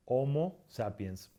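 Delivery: "Homo" said slowly as OH-mo; silent H. Shown as a demonstration. Teacher giving our species name, silent h in "Homo". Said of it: "No pronunciamos la H".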